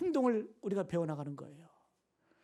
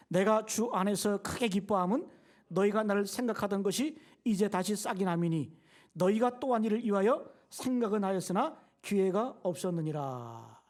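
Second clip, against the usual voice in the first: slow, measured Bible recitation; scripture reading; 3 dB louder than usual. Real, not acted. Pastor leading the congregation in verse ten, slow scripture reading. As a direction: read it out slowly, phrase by phrase.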